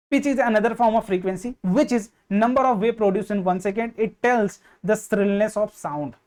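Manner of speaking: very slow, word by word; dictating a definition to students; slow dictation. Shown as a demonstration. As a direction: spell it out for notes. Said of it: "dictates a definition slowly".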